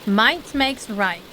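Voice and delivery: slow, weighty repeat of a motto; slow mock echo. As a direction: drag it out like a solemn creed. Echoing the character's motto.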